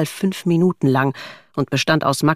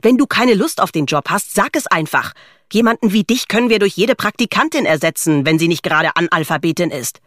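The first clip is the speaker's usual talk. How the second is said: higher-pitched scolding, lightly acted; irritated boss; 3 semitones higher than usual. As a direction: dress down a slacking employee. Boss berating late colleague in story.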